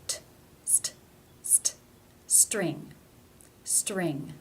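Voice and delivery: "string" with a true T after the S; real T in cluster. Shown as a demonstration. Teacher drilling a consonant cluster, real T in "string". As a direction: build from T to st to "string", T clearly released. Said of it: "pronounced as a real T".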